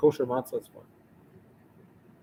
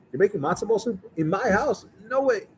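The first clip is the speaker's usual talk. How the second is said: retold shouting; 7 semitones higher than usual. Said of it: "He's shouting".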